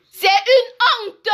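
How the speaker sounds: slow, drawn-out emphatic denunciation; real indignation. Real, not acted. Blogger scolding officials over missing tollgates, indignant. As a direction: stretch each word out in outrage.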